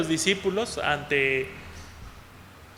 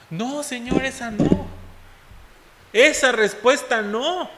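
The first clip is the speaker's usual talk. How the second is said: reluctant believer; 7 semitones higher than usual. Retold or imitated. Believers rejecting the Lord's answer.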